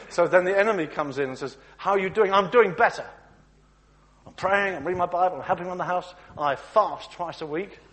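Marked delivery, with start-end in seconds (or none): 1.8-7.8 loud, proud boasting; loud smug churchgoer listing good deeds; boastful believer. Acted. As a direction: brag about your devotion.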